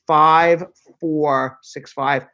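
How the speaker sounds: slow, spaced-out phone number; dictating a number slowly; slow dictation. Shown as a demonstration. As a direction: read each digit slowly for listeners to write down. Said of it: "I'll say it slowly two more times".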